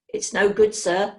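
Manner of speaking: loud, anxious assistant; worried warning. Acted. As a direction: blurt the warning out. Assistant warns his boss.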